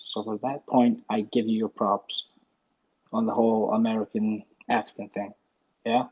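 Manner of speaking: put-on American accent; generic American accent. Shown as a demonstration. Scottish caller making himself understood to host, generic American accent. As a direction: Scot switching into generic American. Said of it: "I'll do it in American".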